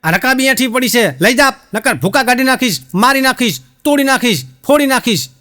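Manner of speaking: husband bullying his wife with empty threats; hammed-up threatening yell. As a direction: rage at her over the dirty saucer, played for laughs. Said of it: "ફરતી રાડ પાડી".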